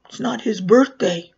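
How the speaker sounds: retold child's firm correction; matter-of-fact correction. Siblings on the couch to the clown, firm correction. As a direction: state "birthday" as a firm falling correction.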